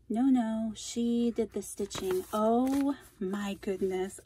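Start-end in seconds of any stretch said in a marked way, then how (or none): none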